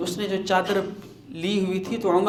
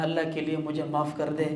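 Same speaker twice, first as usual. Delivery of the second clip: quick soft plea; 6 dB quieter, faster than usual. Acted. Umar ashamed, asks forgiveness.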